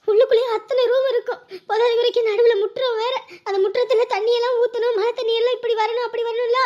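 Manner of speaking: tearful wail over a lost big house; crying lament. Acted. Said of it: "என்ன இப்படி அழுதுகிட்டு இருக்க?". (அழுகையோடு புலம்பல்)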